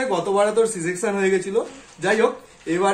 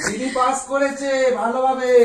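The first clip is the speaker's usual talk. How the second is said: laughing; 3 semitones higher, slower than usual. Real, not acted. Father laughing announces pass.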